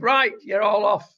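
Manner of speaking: loud mock order from the boss; mock boss shout. Bosses telling staff to return, loud mock order. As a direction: bark it like a fed-up manager.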